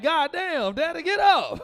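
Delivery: loud high yell; shocked shout. Retold or imitated. Son yelling at slammed dad, high and loud.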